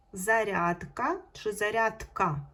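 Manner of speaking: "Зарядка чи зарядка" said slowly, weighing a final д against т; teacher drawing out "Зарядка" to compare endings; slow contrast of endings. Shown as a demonstration. Teacher to pupils, slowly contrasting the two spellings. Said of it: "Зарядка, перевірне слово".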